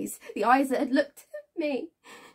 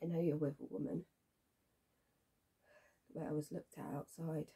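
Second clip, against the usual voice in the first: low, very soft, subdued voice; quiet probing; 6 semitones lower, 11 dB quieter than usual. Acted. Woman probing whether he has a partner, quietly knowing. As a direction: state it softly, as if already knowing.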